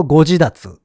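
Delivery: 関西弁のアクセントでご自立; Kansai accent. Shown as a demonstration. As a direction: Kansai pitch on ご自立, rise on じ then level. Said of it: "関西弁的に言うと".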